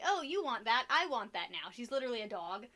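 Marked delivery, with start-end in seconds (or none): 0.0-1.7 louder, lightly voiced demanding cat; mock greedy cat quote, punched louder; imitating the cat. Voicing the cat wanting her food, mock demanding. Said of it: "she'll be like".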